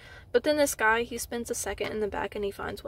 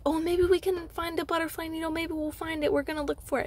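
chirpy staff member; 6 semitones higher than usual. Retold or imitated. Staff member trying to keep her.

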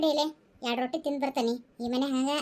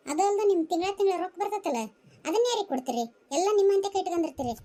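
lively accusing tirade in a raised pitch; daughter-in-law challenging mother-in-law about money, indignantly; indignant complaint; 3 semitones higher than usual. Acted. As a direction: list your grievances at her, exasperated. Acted quarrel over mother-in-law's money.

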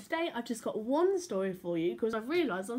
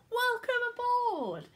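high, loud pirate roar; loud, hearty captain roar; 4 dB louder, slower than usual. Acted. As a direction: bellow the welcome. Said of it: "she roared".

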